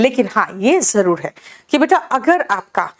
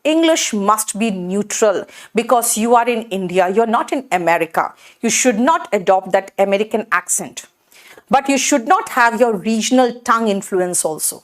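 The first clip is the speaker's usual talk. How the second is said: slow English lecture; much slower than usual. Shown as a demonstration. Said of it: "teacher slow model sentence".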